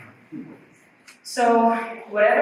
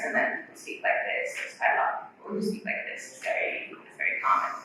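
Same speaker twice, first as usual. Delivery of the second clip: creaky, airy fry voice; vocal fry; 12 semitones lower, 5 dB quieter than usual. Shown as a demonstration. Teacher imitating people who speak with vocal fry. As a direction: let the larynx slack into fry. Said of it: "what we call vocal fry".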